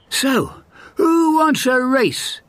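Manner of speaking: high, bragging hare voice; boastful hare. A narrator's reading. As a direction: brag like the cocky hare. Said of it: "said the hare".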